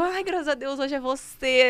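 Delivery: alívio imitado. Retold or imitated.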